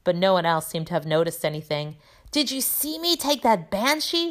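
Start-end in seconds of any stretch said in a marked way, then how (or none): 2.3-4.3 high, excited boasting call; Seamus. A narrator's reading. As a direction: brag eagerly in a raised pitch. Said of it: "shouted Seamus".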